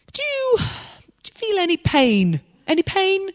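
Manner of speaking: high, slow, careful asking; a hint of slow, over-clear speech; careful question. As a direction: ask gently as if to a foreigner. Asking healed man carefully.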